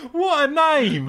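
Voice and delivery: high, drawn-out laughing exclamation; delighted laughing. Real, not acted. Co-host delighting in Curly Watts, laughing. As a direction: marvel at it through laughter.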